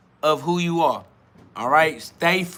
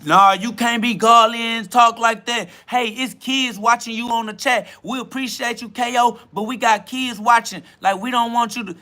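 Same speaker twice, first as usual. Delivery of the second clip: mock chat voice; 4 semitones higher than usual. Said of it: "they gonna say".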